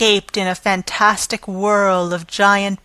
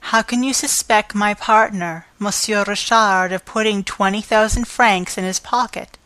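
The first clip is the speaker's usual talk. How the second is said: gently asking. Acted. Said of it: "ask her more gently".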